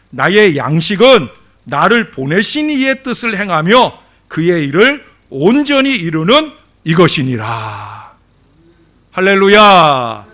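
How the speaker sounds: loud preaching, stretched phrase endings; booming, slowing pulpit recitation; scripture proclamation. Real, not acted. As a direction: proclaim the verse, then draw out a loud hallelujah. Proclaims scripture at full force.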